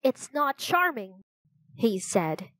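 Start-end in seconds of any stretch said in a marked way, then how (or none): 0.0-1.2 higher, mildly indignant protest. Acted. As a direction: protest to the captor, pitched up. Jack objects to the captor.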